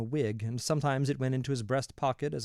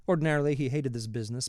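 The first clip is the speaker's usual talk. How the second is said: usual speaking voice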